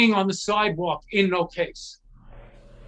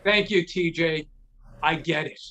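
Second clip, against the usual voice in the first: respectful; 5 semitones lower than usual. Retold or imitated. Kid thanks the guitar guardian, low and respectful. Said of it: "very respectfully".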